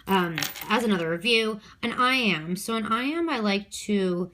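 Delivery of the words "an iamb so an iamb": "iamb" stretched and pushed up higher; exaggerated stress. Shown as a demonstration. Teacher reviewing poetic feet for a quiz, exaggerated stress. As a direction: lean hard and high on "iamb" as a memory trick. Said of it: "put my own stress in there".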